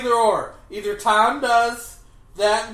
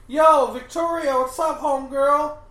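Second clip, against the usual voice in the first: put-on teen slang voice; 5 semitones higher, 3 dB louder than usual. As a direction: play a hyped-up teenager. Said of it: "the kids are like".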